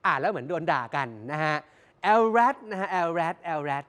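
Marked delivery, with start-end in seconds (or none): 2.0-3.8 แอลแรด as the English acronym, not read as Thai words; English-accent LRAD. Shown as a demonstration. Host teaching viewers to say แอลแรด, English-style. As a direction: say แอลแรด the English way, el-rad, with a falling end. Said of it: "อย่าอ่านเป็นภาษาไทย".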